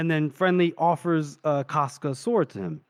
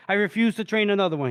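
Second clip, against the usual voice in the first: higher-pitched, mildly huffy refusal; retold indignation; 4 semitones higher, faster than usual. Retelling his refusal to train an assistant, mildly indignant. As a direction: refuse firmly, imitating someone mad. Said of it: "He was furious".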